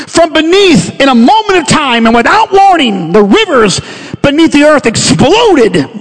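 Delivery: swelling sermon storytelling, pitch swooping on key words; dramatic preaching. Real, not acted. Preacher paints the flood to the congregation, dramatic preaching. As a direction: paint the disaster with rising urgency.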